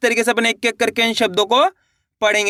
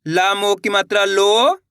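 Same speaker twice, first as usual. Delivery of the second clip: slow spelling-out, लो stretched upward; syllable-by-syllable reading; much slower than usual. Shown as a demonstration. Teacher leading learners to repeat along, slow and drawn out. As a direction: hold लो, pause, then sound क alone. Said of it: "मेरे साथ साथ इनको repeat करना है".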